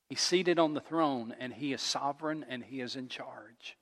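hushed, settling down softly; calm assurance. Real, not acted. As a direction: let it sink to near whisper. Calm sovereign contrasted with pacing.

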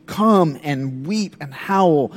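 slow, weighty prophetic call; a stern call to repent, slowly. Retold or imitated. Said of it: "he is doing a bit of that".

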